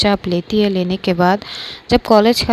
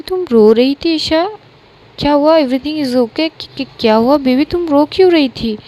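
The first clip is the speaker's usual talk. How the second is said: worried alarm; 5 semitones higher than usual. Acted. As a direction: rush in alarmed and concerned. Friend finds Isha crying. (घबराई हुई चिंता भरी आवाज़)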